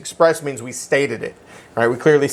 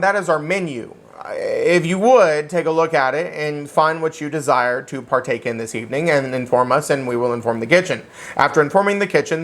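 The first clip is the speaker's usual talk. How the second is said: a mildly stuffy, overly formal waiter; lightly hammed-up formal server. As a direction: recite it like a pompous maître d'. Waiter reciting formal contract terms.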